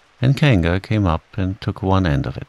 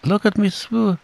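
high little show-off voice; Roo's squeak; 13 semitones higher than usual. A narrator's reading. Roo showing off before the next waterfall, squeaking. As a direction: pipe up high, then get cut off. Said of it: "squeaked Roo".

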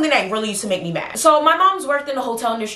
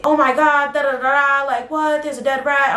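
mock shocked mom; 5 semitones higher than usual.

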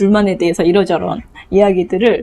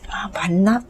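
whisper; 5 dB quieter, slower than usual. Acted. Child wondering quietly.

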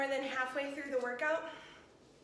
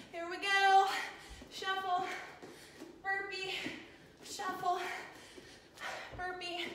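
higher, pumped-up cues; energetic; 6 semitones higher than usual. Real, not acted. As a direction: call the moves with energy. Calling out moves energetically.

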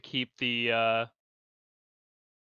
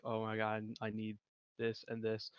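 gushing excitedly; 4 semitones lower, 12 dB quieter than usual. Acted. Character gushing over clothes.

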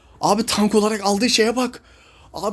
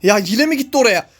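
exasperated yell; 6 dB louder than usual. Real, not acted. Teammate repeats a bad move.

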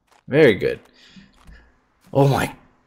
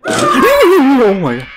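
panicked scream; 11 semitones higher, 5 dB louder, much slower than usual. Real, not acted. Jump scare in horror game.

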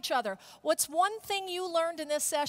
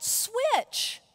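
loud high mock yell; 7 semitones higher, 5 dB louder than usual. Riders standing up and yelling to the crowd, mock yell. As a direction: call it out across the stadium. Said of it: "and they yelled".

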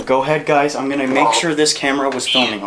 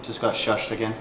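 hushed; 2 semitones lower, 8 dB quieter than usual. Real, not acted. Whispering during investigation.

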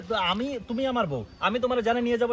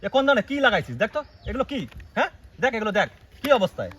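sharp, raised, indignant questions; angry scolding; 2 semitones higher, 4 dB louder than usual. Acted. Husband scolding wife over her lipstick, angry raised voice.

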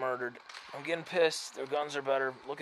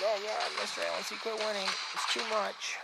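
mock whiny viewer; 7 semitones higher than usual.

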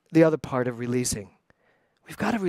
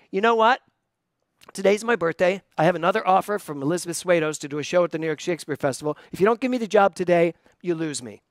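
defiant pit bull ultimatum; faster than usual. Retold or imitated. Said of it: "little pit bull back then".

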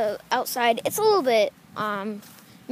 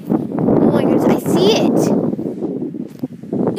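scared whisper; 7 dB louder, much slower than usual. Real, not acted. Spotting creature in the lake.

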